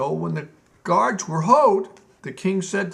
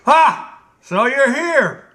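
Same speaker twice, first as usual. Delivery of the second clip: high, loud, slow menacing greeting; high triumphant snarl; angry Gnome King; 8 semitones higher, 9 dB louder, slower than usual. Acted. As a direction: pounce on the late general. King greets the general angrily.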